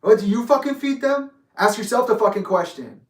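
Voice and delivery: imitating an angry father, loud and high; retold explosive challenge; snapping aggressively. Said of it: "Chester comes up on me".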